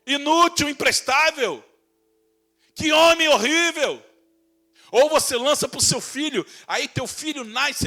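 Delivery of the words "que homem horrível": a hint of disgusted gasp; mock disgust. Preacher mimicking a shocked onlooker, mild disgust. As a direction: say it like a horrified gossip.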